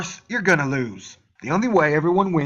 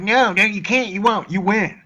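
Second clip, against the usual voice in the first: higher, louder whiny mock voice; mocking whiny haters; 5 semitones higher, 4 dB louder than usual. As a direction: mimic a whining hater, hammed-up. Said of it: "you're like".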